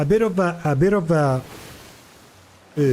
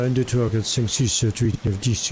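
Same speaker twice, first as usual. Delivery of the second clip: French accent; 3 semitones lower than usual. Shown as a demonstration. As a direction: demo French counting with a stiff chin. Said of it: "the mouth barely moves".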